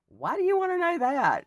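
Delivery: high, loud demanding question; blurted challenge. Acted. Woman voicing her own blunt comeback to the question, loud challenge. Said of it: "That's me. That's me".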